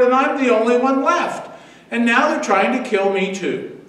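a prophet at the end of his rope, rising in pitch and force; building desperate complaint. Acted. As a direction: pour out the grievance until it breaks into a plea. Elijah pours out his complaint.

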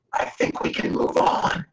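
slow, polite aside; polite suggestion. Acted. German attaché leaning over to the American, polite. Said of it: "just politely lean over".

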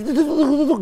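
high-pitched rapid "tutuk" patter; playful high-pitched knocking sound effect; imitated tapping noise. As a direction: mimic tapping in a high little voice.

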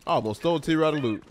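chewing while talking; mouth full. Real, not acted. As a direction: talk through a mouthful. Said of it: "I'm sorry for the chewing".

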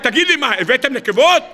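high mock yell of rebuke; משה רבינו. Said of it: "ומשה רבינו צועק". (צעקת תוכחה מעושה בקול גבוה)

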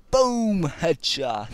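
loud, high "Boom, headshot!"; triumphant shout after a kill; excited callout. Real, not acted. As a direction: bark it out like a proud gamer. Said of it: "Just love saying that".

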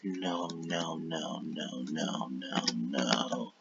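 a defeated mumble trailing off; fading no's. Real, not acted. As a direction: let the no's fade out to nothing. Trailing off in mock despair.

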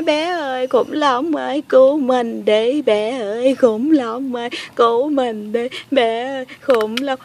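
slow, drawn-out pretend crying call; mock tearful plea. Girl begging child and dinosaur for help, mock tearful. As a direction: wail for help in a play-crying singsong. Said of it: "khóc hoài à".

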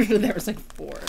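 laughing through stuffed mouth; mouth full. Real, not acted. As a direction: talk round a mouthful of chips. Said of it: "How many chips did you stuff in your mouth?".

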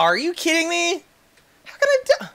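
real shocked protest at dying; high outraged disbelief. Real, not acted. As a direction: wail it like you can't believe you died.

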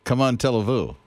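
"Come on, tell vous" in English words, falling; mangled French. Shown as a demonstration. Host trying to copy French, mangled as "Come on, tell vous". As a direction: botch "comment allez-vous" as American "come on, tell-a-voo". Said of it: "It sounds like you're saying".

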